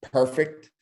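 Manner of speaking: bright excited "Perfect". Shown as a demonstration. Agent answering a buyer, excited "Perfect". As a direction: sound delighted.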